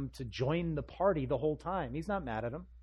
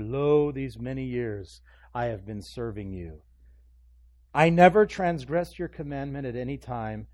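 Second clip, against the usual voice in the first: mildly indignant, bursting louder midway; angry brother; 8 dB louder than usual. Acted. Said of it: "They're the angry brother standing outside".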